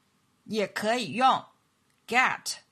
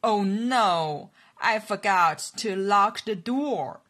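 louder "Oh no", falling dismay; sudden realization, a bit louder; 3 dB louder than usual. Shown as a demonstration. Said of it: "糟了".

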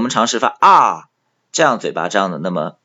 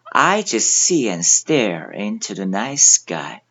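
slow review reading; slower than usual. Shown as a demonstration. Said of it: "再来复习几遍".

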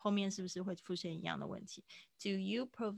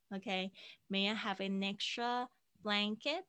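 slow linked demo; slower than usual. Shown as a demonstration. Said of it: "好像都连在一起了".

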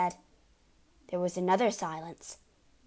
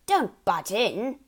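gruff rebuke; 6 dB louder, slower than usual. Acted. Father snaps at Matilda.

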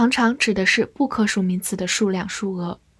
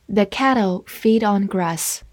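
slow reading. Shown as a demonstration. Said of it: "好，慢慢来读".

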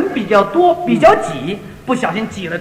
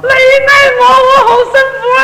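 Cantonese outburst; 13 semitones higher, 6 dB louder than usual. Retold or imitated. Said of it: "讲了一句广东话".

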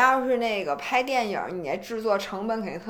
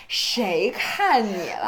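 retold annoyed retort; much slower than usual. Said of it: "我说".

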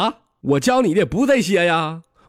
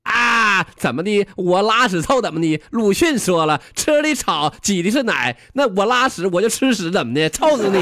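higher-pitched cocky comeback; defiant bickering; 5 semitones higher than usual. Acted. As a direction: bicker back as a cheeky crow. Crow defies farmer in quarrel.

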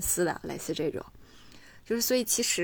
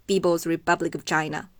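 put-on Indian English accent, louder; 6 dB louder than usual. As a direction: imitate an Indian English speaker. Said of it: "给我的朋友学印度腔的英语".

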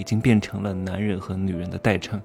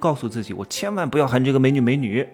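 mock vow; 6 semitones higher, 7 dB louder than usual. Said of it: "很多人说".

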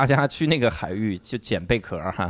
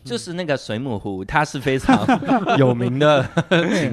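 put-on Northeastern accent; 3 semitones higher, 4 dB louder than usual. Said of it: "你就往东北那，搁那儿整".

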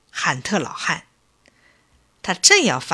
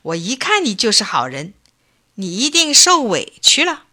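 beaming with delight; 3 semitones higher than usual. Acted. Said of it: "高兴得眉开眼笑".

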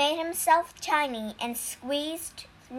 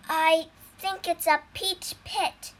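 nervous; 5 semitones higher than usual. Acted. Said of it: "said the monk nervously".

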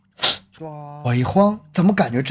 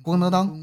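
clattering knife; 4 semitones higher, 5 dB quieter than usual. Acted. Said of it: "扔下了刀子".

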